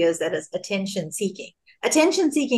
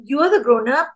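exasperated plea; 4 semitones higher than usual. Retold or imitated. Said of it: "And I just feel like".

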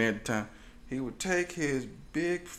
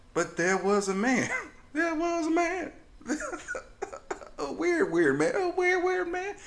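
giggling, high and broken; real laughter while telling; laughing through words. Real, not acted. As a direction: fight the laughter. Laughing through story opening.

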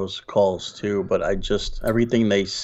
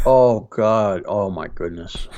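savoring food; slower than usual. Pretend. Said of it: "as if I'm eating something delicious".

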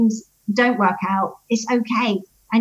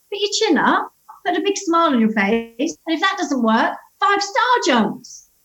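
put-on child's voice; 6 semitones higher than usual. Son voiced advising friend.

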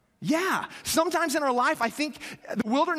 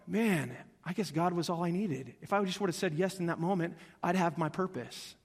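humbled realization; 4 semitones lower, 5 dB quieter than usual. Retold or imitated. Broken person at bottom realizes.

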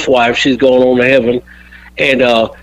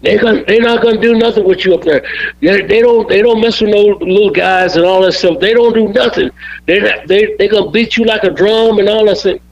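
fast, higher mock-angry rant; imitating a boss hitting the ceiling, quick and pitched up; upset Bill; 5 semitones higher than usual. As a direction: rattle it off like an upset promoter blowing up. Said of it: "Oh, he got so upset".

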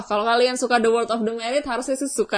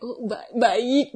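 laughing; 3 semitones higher, much slower than usual. Retold or imitated. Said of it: "Gue kayak".

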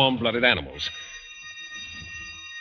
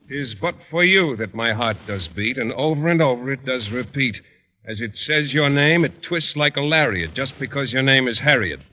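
poem reading. Acted. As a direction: recite it like a mocking read-aloud. Teacher reads a love poem aloud.

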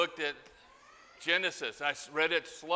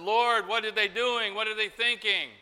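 incredulous cry; 6 semitones higher, 6 dB louder than usual. Acted. Crying out to the Lord.

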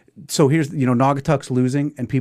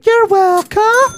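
slow and high, drawn out; slow, high, smug line to the camera; smug you're welcome; 7 dB louder, much slower than usual. Pretend. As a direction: deliver it like a cocky favour to her. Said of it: "look you in the eye, baby, and say".

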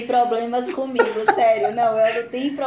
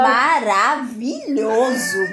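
swooning; much slower than usual. Real, not acted. Swooning over husband.

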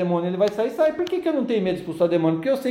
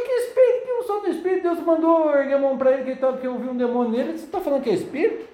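indignant; 4 semitones higher than usual. Retold or imitated.

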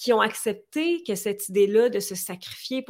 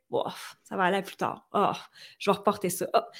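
mock listless shrug in the voice; offhand procrastination; 3 semitones lower, 3 dB quieter than usual. Podcast guest mimicking herself putting life off, offhand. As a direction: put it off with careless little sighs.

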